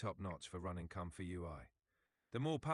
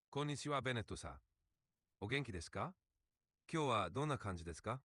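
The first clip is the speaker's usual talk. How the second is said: polite Japanese-accented greeting. Shown as a demonstration. Chat assistant obliging the user's accent request, Japanese accent. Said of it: "Can you speak in a Japanese accent".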